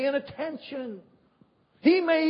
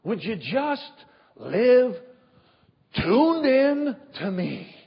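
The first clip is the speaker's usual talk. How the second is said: pleading God voice; 3 dB louder, slower than usual. Pretend. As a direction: coax gently, then build to a loud appeal. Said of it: "is watching us going".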